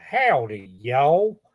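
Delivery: imitated drawling Southern howdy accent; Jim Foster. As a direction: put on a country howdy accent. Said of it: "he's got a little bit of an accent like that".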